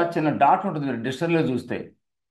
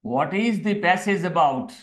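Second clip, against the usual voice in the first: slow dictation; much slower than usual. Shown as a demonstration. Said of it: "first step ఏంటి".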